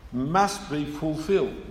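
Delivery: MUST drawn out slowly with weight; emphatic MUST. Shown as a demonstration. Preacher explains the emphatic word in the Greek, MUST stressed slowly. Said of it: "it's emphatic".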